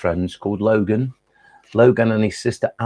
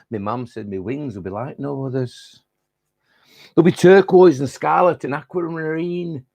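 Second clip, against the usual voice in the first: put-on generic Lancashire accent, higher and rhythmic; Tony the Butterfly; 4 semitones higher than usual. Butterfly telling his life story, Lancashire accent. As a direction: recite it proudly in broad Lancashire, stretching the rhymes. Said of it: "It's to be recited in a Lancashire accent".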